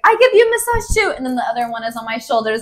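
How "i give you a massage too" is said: high mock Russian accent; the second Russian guy chimes in. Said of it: "another one's like".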